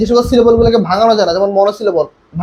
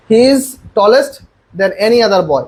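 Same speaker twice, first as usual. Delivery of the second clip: slow dictation; much slower than usual. Shown as a demonstration. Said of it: "আমরা সবগুলোকে পড়ি".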